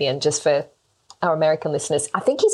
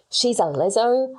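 slower, higher mock Australian accent; bad Australian accent; 4 semitones higher, slower than usual. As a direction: stretch it out in a poor Australian accent. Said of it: "That was a really bad accent".

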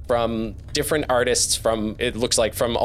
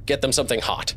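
host character; 4 semitones higher than usual. Acted. GM voices host Kenoith.

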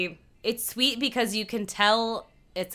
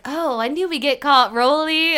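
loud, high-pitched imitated wail of being caught; mock dismay; 6 semitones higher, 9 dB louder than usual. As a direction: exclaim it like a busted accomplice. Acting out Jocelyn caught out.

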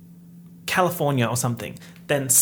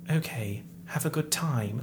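softer, deflated imitation; accent gone; 5 dB quieter than usual. Vlogger showing how the actress's scene ends, softer with accent gone. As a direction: let the accent and energy drop away. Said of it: "her accent just disappears".

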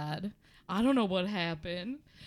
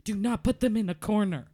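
angry; 4 dB louder than usual. Acted. Mother bird scolds Michael.

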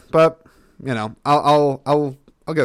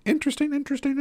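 silly high voice; 3 dB quieter, much faster than usual. Pretend. Toying with the word.

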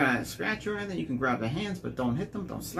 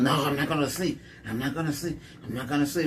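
mock stubborn refusal. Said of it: "she just carried on".

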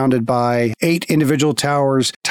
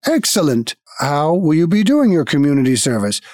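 guild automaton. Acted. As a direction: speak like a polite machine at a desk.

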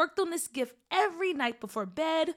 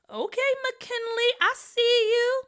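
teasing classmates; 10 semitones higher, 5 dB louder than usual. Acted.

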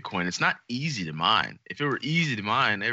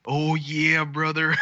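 higher, louder hyped-up "Oh, yeah, brother"; mock excited shout; 7 semitones higher, 5 dB louder, much slower than usual. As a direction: yell it like a wrestling hype man. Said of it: "he goes".

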